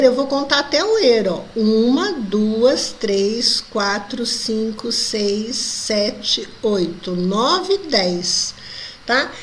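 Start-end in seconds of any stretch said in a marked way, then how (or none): 1.5-8.5 counting poetic syllables. Shown as a demonstration. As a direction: tick off each syllable one by one. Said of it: "Aqui, ó".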